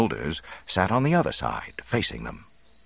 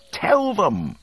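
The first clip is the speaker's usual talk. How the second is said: loud, higher, emphatic command; ordering; 5 dB louder than usual. A narrator's reading. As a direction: give a firm order. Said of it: "Luke ordered".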